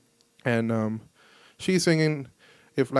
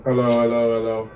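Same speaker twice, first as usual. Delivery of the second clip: less bassy, speaking past the mic; thinner, more normal tone off the mic; off-axis voice; 4 semitones lower, 3 dB louder than usual. Shown as a demonstration. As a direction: turn off axis so the boom drops away. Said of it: "my voice changed totally".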